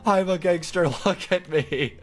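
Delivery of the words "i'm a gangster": mock gangster boast. Boasting to the game characters, mock swagger. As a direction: brag like a tough guy, hammed-up. Repeats gangster chant louder.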